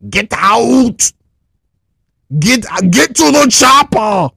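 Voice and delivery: mock action-hero shout; Arnold Schwarzenegger. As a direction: bark it like a movie muscleman. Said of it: "In my best Arnold Schwarzenegger voice".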